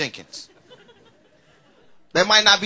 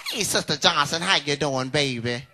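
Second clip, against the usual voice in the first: church grandma sweet-talking; 3 semitones lower, 3 dB louder, slower than usual. Retold or imitated. Grandma gushing over Sister Johnson after Sunday service, sugary church-lady voice. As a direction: pour on the church-lady flattery.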